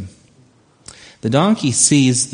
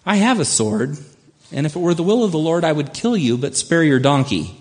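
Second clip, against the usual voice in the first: slightly raised pitch, quick mock threat; lightly voiced angel; 5 semitones higher than usual. Angel warning Balaam he would spare only the donkey, lightly voiced. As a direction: give a hint of an angel laying down the law. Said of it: "what the angel says to Balaam".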